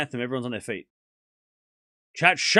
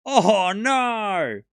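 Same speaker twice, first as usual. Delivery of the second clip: mock dismay; 4 semitones higher, 4 dB louder than usual. Repeats the mock wail.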